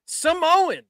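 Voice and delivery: Samoan! shouted up high, imitating a commentator; mock scream. Cohost retelling the commentator's scream of Samoan!. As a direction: yell Samoan! in a hammed-up announcer pitch. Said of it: "Michael Cole screams".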